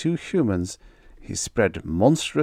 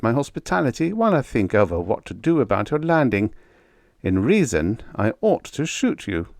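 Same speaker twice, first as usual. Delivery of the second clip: politely; 3 semitones higher than usual. Acted. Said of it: "he said politely".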